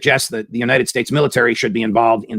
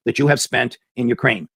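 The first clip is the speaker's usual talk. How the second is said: indignant questioning; 3 semitones higher than usual. Pretend. Host imagines grilling President Biden, rising indignation. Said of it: "I would like to question President Biden".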